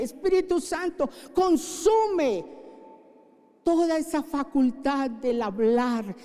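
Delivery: impassioned plea to the Holy Spirit; fervent prayer. Acted. Pastor asking the Spirit to cleanse speech, impassioned prayer. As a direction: cry out the prayer, then settle. Pastor prays aloud again.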